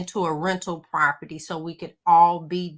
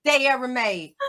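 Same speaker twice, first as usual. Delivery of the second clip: laughing through a mock rant, pitched up; 7 semitones higher, 5 dB louder than usual. Real, not acted. Telling the ladies ranch is the worst, laughing. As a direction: cackle while trashing the dressing.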